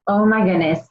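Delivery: fighting back real tears; choking up. Real, not acted. Telling how a new business changed her family, tearing up. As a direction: voice catching with tears. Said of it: "I'll try not to cry too".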